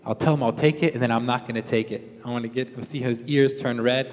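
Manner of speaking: a quiet, hammed-up villain laugh from the wife; mock scheming laugh. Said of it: "she purposely said".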